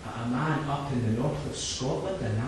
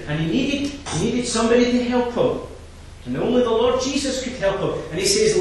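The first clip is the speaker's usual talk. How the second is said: full-force preaching; 4 dB louder than usual. Acted. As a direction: drive the verses home from the pulpit.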